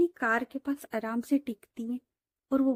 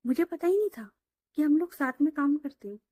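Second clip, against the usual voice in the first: mock surprise; 4 semitones higher than usual. Preeti sarcastic to Ritika.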